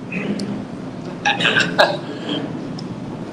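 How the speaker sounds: soft, breathy chuckle. Real, not acted. Preacher after urging listeners to just do it, soft chuckle. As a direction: let out a quiet laugh to yourself.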